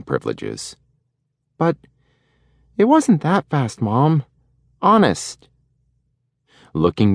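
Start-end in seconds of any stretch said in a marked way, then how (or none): 1.6-5.5 put-on high boy's voice pleading; little boy protesting. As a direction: beg mom it wasn't fast.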